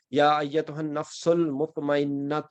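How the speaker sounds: slow Quranic recitation; measured Quranic verse reading. Shown as a demonstration. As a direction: recite the verse slowly, leaning on المطمئنۃ. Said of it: "تو یہ مطمئنہ".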